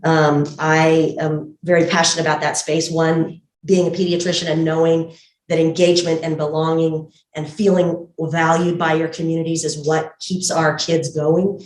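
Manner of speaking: muffled speech through a mask; talking behind a medical mask; through a face mask. Real, not acted. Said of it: "hopefully you can hear me through the mask okay".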